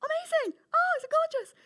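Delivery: put-on a child meeting her new puppy; thrilled child. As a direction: gush over the puppy.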